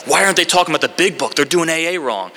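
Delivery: high-pitched, quick whiny self-parody; mock indignant complaint. Upset member griping about old timers, mock indignant. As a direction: complain high and fast, sending yourself up.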